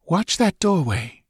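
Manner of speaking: Thalis's command. A narrator's reading. Thalis sends the warrior's gaze to the doorway, lightly commanding.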